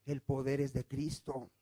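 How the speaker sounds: Peter's quiet conviction; quiet, solemn Peter. Retold or imitated. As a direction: lay down the truth in a hush. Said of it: "Dice Pedro".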